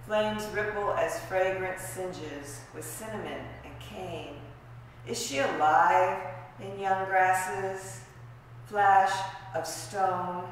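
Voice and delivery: measured poetry recital with weighted phrases; poetry reading. Acted. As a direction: read it as verse, pausing between images. Reads own poem aloud.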